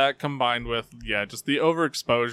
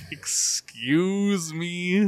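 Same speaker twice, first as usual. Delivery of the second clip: high, very drawn-out incredulous question; indignant disbelief; 7 semitones higher, much slower than usual. Acted. Parent answering a kid's bruh, indignant disbelief. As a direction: stretch it out in offended astonishment.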